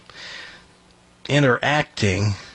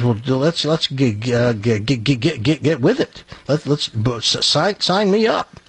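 eager stuttering. Acted. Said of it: "stuttering problem".

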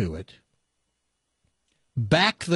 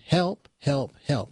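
a lightly voiced chicken crying for help; lightly voiced chicken calling help from the hole; 2 semitones higher, slower than usual. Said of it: "yells out in his chicken voice".

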